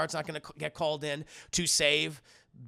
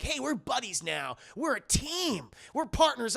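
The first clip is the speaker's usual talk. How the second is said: mock buddy-buddy; 7 semitones higher than usual. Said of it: "some really weird dialogue between them".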